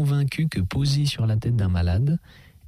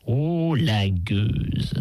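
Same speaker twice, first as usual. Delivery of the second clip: en riant; much slower than usual. A narrator's reading. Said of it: "s'exclama madame Bavoil en riant".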